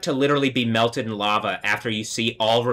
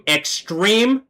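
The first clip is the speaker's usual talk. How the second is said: "extreme" leapt much higher, rising; "extreme" repeated far higher and louder; high emphatic; 9 semitones higher, 3 dB louder than usual. Real, not acted. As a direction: fling "extreme" up high with a rise. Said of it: "let me affirm".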